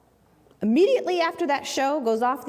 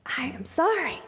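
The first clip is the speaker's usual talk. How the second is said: breathy whisper, voice dropped away; whispered apology; 3 semitones higher, 4 dB quieter than usual. Retold or imitated. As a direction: whisper the apology like bad news. Lawyer apologising, refusing client.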